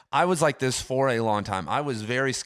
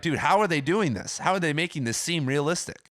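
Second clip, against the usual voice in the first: mock amazement; 5 semitones higher than usual. Imagined awed reaction.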